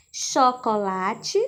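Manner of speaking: Chocolate stretched slowly, syllable by syllable; slow sounding out. Shown as a demonstration. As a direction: spell it out by ear. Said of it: "Primeiro pedacinho é". (Chocolate dita devagar, sílaba por sílaba)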